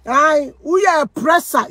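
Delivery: shouted in outrage; indignant shout. Real, not acted. Ranting at her online accuser, an outraged shout.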